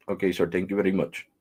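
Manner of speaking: put-on courteous Indian accent; lightly mimicked Indian English; imitated Indian agent. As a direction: thank the caller like an Indian phone agent. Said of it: "I'm talking like he was talking to me".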